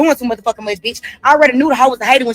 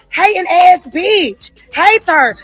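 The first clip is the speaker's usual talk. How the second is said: slow, sneering insult; drawn-out scorn; 5 semitones higher, much slower than usual. Real, not acted. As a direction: drag it out with contempt. Insulting the TSA worker.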